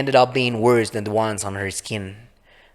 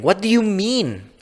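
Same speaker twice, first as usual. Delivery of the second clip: much higher, panicked question; panicked high pitch; 10 semitones higher than usual. Acted. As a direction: voice shoots up in panic. Panicking as she sweats.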